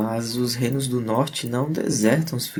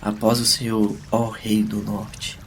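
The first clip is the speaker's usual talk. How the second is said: slow mock-formal bow; drawn-out sarcastic courtesy; slower than usual. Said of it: "ignorando o sarcasmo do amigo".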